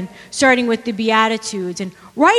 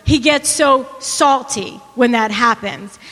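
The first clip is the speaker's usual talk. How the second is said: reading the definition. Shown as a demonstration. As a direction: read "Hostile or upset" out like a quoted definition. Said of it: "the dictionary dot com says".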